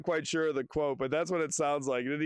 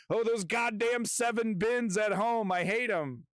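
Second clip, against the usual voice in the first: mock frustrated shopper; 6 semitones higher than usual. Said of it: "they're going".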